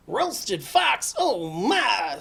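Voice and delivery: loud, high-pitched fox alarm; startled fox. Acted. Fox hears he is favorite food, loudly startled.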